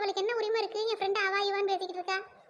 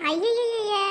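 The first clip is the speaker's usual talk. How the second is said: loud, fed-up exclamation; exasperated outcry; 6 dB louder, much slower than usual. Acted. Mother breaking up her daughters' quarrel, loud exasperation. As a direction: burst in loudly on the squabble.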